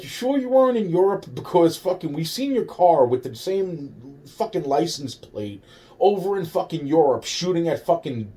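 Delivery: hammed-up disbelieving kids quizzing him; mock incredulous classmates. High school kids on the bus grilling him, in a mock high incredulous voice.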